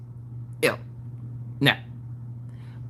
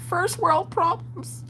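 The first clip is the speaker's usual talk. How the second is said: mock ironic; 11 semitones higher, much slower than usual. Real, not acted.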